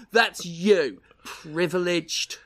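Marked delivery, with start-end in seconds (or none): none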